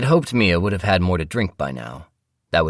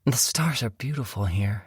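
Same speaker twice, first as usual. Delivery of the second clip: wife voice; 6 semitones higher than usual. Acted. Husband narrates, voices his wife.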